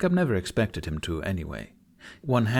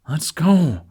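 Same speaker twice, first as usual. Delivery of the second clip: a loud, higher, impatient burst; eager dragon; 6 semitones higher, 8 dB louder than usual. A narrator's reading. Toothless pulling Hiccup along, eager loud call. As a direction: tug them along with the words.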